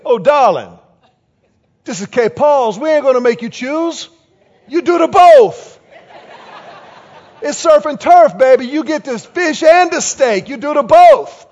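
loud, high-pitched imitation of a Cajun waitress; thick Cajun accent. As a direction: belt it out like a sassy Cajun waitress. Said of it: "had this really thick Cajun accent".

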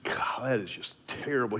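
soft breathy whisper to yourself. Retold or imitated. Runner whispering sympathy for struggling teammate, hushed. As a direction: say it under your breath, sorry for him.

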